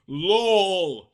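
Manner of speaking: loud, bright shout. Acted. Friend shouting a joke from the crowd. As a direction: call it out teasingly. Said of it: "shouted Rochelle".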